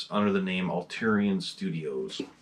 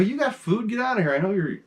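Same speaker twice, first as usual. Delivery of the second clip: tag; 10 semitones higher, faster than usual. Retold or imitated. Talking to the cat.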